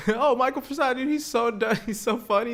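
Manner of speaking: high, giddy gushing with a laugh; mock fan voice. Mimicking an adoring fan, high and giddy. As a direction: gush over him like a starstruck fan. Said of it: "mocking fans again".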